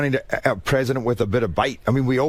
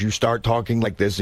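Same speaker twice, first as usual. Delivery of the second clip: forced, put-on American accent; self-conscious audition-style American. Shown as a demonstration. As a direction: demonstrate a stiff American accent. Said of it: "because that's so forced".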